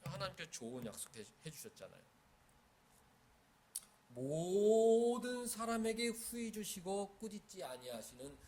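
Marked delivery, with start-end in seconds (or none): 4.1-8.4 loud, very slow verse proclamation, higher; slow proclaiming. Acted. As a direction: draw out each word of the verse. Preacher proclaims the key verse.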